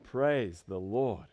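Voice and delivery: low, slow, hushed praise; soft praise. Shown as a demonstration. Preacher echoing the congregation's shout, now soft, low and slow. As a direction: let it out softly and drawn out. Repeats it softly after the shout.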